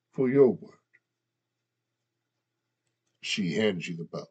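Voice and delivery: gruff, guttural orc speech. Acted. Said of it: "I'm still speaking like an orc".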